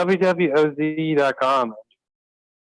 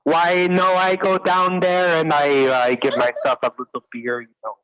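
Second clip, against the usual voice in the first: a hint of Jamaican accent, laid back; 3 semitones higher than usual. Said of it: "can you do a good Jamaican accent".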